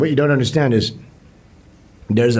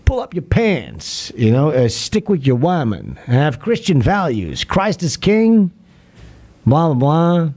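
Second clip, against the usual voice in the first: loosely imitating Bill Cosby lecturing; mild preachy scold, slowed, peaking on king; a hint of Bill Cosby sermonizing; Bill Cosby impression; 3 semitones higher than usual. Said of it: "you just do like Bill Cosby in the nineties".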